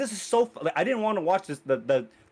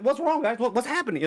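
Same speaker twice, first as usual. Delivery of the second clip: lightly acted confusion, pitched up; a touch of higher-pitched bewilderment; bewildered character; 6 semitones higher than usual. Shinji asking what happened after waking up, lightly acted bewilderment.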